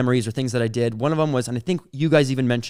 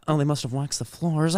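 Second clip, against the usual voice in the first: lightly imitated mom, fighting back laughter; deadpan mom line through suppressed giggles; mom's exact delivery; 4 dB quieter than usual. Comic retelling a mom's odd remark, lightly imitated while cracking up. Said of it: "this is exactly how she said it".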